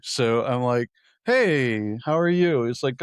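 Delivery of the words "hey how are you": high, louder hello; friendly greeting. Retold or imitated. Passenger greeting the cab driver, friendly and pitched up. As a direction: imitate yourself making chatty small talk.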